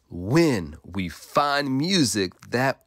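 slow, tender wisdom; gentle. Acted. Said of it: "he said".

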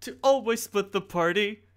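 evil smile. Acted. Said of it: "I can hear the evil smile in your voice".

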